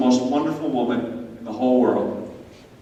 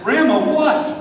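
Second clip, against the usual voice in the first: higher-pitched, exasperated question; put-upon twelve-year-old's question; exasperated grandson; 6 semitones higher, slower than usual. Acted. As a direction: ask it like an uneasy, impatient kid. Impatient boy acted toward grandmother.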